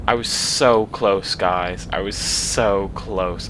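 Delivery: slow, drawn-out dismay; slow sorry groan; dejected. Real, not acted. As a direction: mourn the near miss. Despair after failing.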